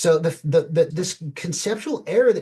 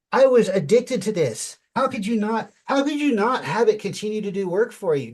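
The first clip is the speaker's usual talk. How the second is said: higher-pitched, insistent ranting; impassioned rant; 7 semitones higher, 4 dB louder than usual. Real, not acted. Engineer gushing to his co-host about an addictive tool, ranting. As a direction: rant in real disbelief, pitch raised. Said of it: "Now you got me ranting".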